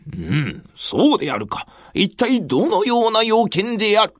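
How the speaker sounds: weighty lord questioning; booming commanding warlord. Acted. Nobunaga answers gravely.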